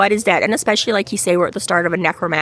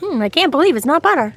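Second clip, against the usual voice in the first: ad slogan voice; 7 semitones higher, faster than usual. Pretend. Ad slogan quoted.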